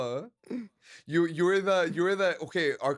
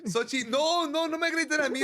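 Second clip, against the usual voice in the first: playful protest; 12 semitones higher than usual. Real, not acted. Protesting being blamed.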